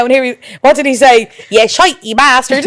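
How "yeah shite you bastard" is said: mild imitation of a thick Irish accent; Antonio's big Irish accent. Quoting the friend's voice note, mild Irish accent. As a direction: lightly play up a broad Irish accent. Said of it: "in a big Irish accent".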